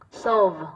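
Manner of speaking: solve, sounding out the O. Shown as a demonstration. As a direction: say solve with a clear O vowel. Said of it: "âm O". (đọc solve rõ âm O)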